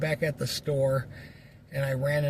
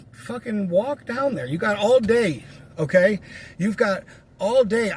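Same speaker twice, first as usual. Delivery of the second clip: raised, insistent voice, telling him to walk; loud telling-off; 4 semitones higher, 4 dB louder than usual. Retold or imitated. Telling off a friend who wants a ride, loud and firm. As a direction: lecture him hard, voice up.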